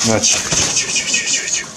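breathy whispered ciu ciu; whisper-call the birds in gently; soft whispered pigeon call. Real, not acted. Calling pigeons with soft clicks.

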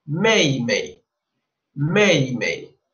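"mei" in Mandarin tones, varying pitch; Chinese word. Shown as a demonstration. Teacher teaching the word for younger sister. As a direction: model "mei" repeatedly.

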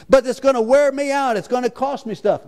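high, loud whining; high mock whine; whiny reluctance. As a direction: sulk like a child.

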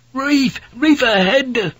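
high-pitched urgent scream; screamed warning. A narrator's reading. Fink warns the ship of the reef ahead, screamed. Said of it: "Fink screamed".

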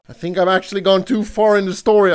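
ordinary delivery

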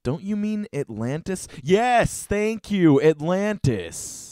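high, drawn-out mock relief; mock exchange. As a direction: play both posters, hamming the relief. Acting both sides of reply thread.

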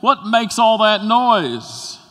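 put-on high, small child's voice asking; scared little boy. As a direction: voice a frightened toddler in the storm. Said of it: "he said".

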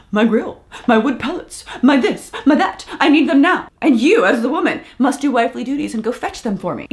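mock him like a spoiled kid demanding his toys; whiny child. Mocking the husband to her viewers, as a whiny child. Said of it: "he responds like a child".

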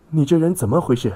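high, loud outraged cry; screaming. A narrator's reading. Girl's friend screams at the violent man, screaming. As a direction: shriek it in shocked outrage. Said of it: "他尖叫道".

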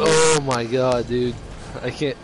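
talking through hiccups. Real, not acted. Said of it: "your fucking hiccups are ruining it".

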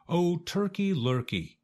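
high, pleading goose voice; a little goose calling out in a high voice; Goosey Lucy crying out. A narrator's reading. Goose warns the strutting turkey, high and pleading. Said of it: "cried Goosey Lucy".

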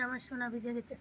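soft sweet coaxing; tender coaxing. Real, not acted. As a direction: coax the little one up softly.

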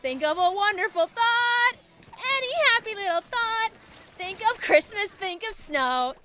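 sing-song like Peter Pan. Pretend.

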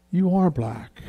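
amused reveal breaking into a chuckle; laughing mother. Retold or imitated. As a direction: break the obvious news with a laugh. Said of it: "My mother started laughing".

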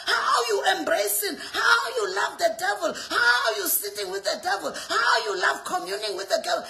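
emphatic, driving sermon delivery; impassioned rebuke from the pulpit; forceful preaching. Acted. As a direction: preach it hard, hammering each repeated phrase.

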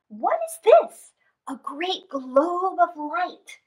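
a hint of wonder in Anansi's voice; mildly awed spider; lightly voiced Anansi. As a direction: marvel at the glowing globe. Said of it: "said Anansi".

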